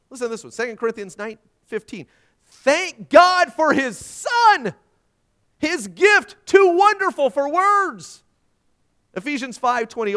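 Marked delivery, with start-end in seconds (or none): 2.5-8.2 loud, high, drawn-out shout of praise; exultant proclamation. Real, not acted. Preacher reads the verse to the congregation, exultant shout. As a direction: proclaim it slowly at full voice.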